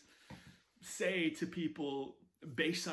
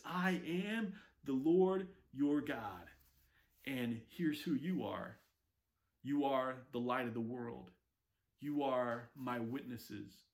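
solemn tender declaration; 4 semitones lower than usual. Acted. God declaring who we are.

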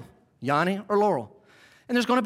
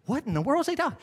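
high, incredulous listener; mock bafflement; 5 semitones higher, 3 dB quieter, faster than usual. Preacher voicing people who never heard it, mock bafflement. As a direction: protest in a raised, baffled pitch. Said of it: "those of you that never heard it are like".

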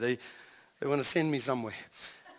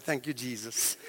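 relieved thanks; 6 semitones lower, 9 dB quieter than usual. Retold or imitated. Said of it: "and I said".

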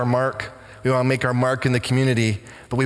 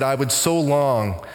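quivering voice; 2 semitones lower, slower than usual. Retold or imitated. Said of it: "she quivered and said".

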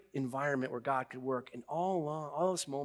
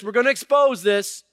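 God repeating it, less high, still loud; voice of God, settling; 8 semitones higher, 13 dB louder than usual. Retold or imitated. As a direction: restate God's verdict a notch down. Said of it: "And God's going".

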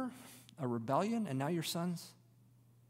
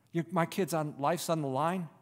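hushed, desperate plea; a worried parent praying for good news; anxious parent pleading. Acted. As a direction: plead under your breath, sighing and nearly voiceless. Preacher voices anxious parent pleading.

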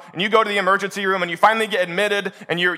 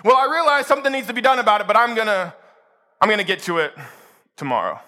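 breezy excuse; faster than usual. Retold or imitated. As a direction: put it off casually. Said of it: "they'll say".

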